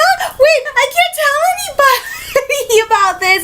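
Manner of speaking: high-pitched, laughing mock frustration; mock dismay. Crew member remembering the secret, comic dismay. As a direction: catch yourself mid-brag, comically thwarted.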